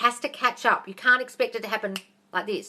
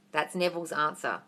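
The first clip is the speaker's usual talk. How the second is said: ordinary talk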